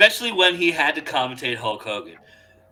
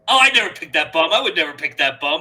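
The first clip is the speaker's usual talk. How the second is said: indignant Heenan denial; 5 semitones higher, 16 dB louder, faster than usual. Retold or imitated. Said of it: "He goes".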